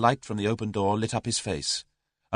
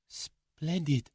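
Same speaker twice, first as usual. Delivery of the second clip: cry; 7 semitones higher, 6 dB quieter than usual. A narrator's reading. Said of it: "cried the girl".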